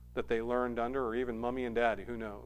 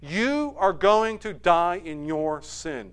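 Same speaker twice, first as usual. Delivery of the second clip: judgment language; 3 semitones higher, 5 dB louder, slower than usual. Acted. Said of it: "this is judgment language".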